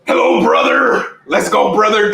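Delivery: drawn-out mock wrestler greeting. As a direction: play a hammed-up wrestler hello. Mimics wrestler's entrance catchphrase.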